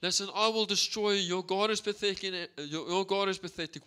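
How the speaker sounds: a mild mock yell of the taunting Goliath; mock giant taunt. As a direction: jeer like a bully giant, only half shouted. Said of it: "he is screaming and he is shouting".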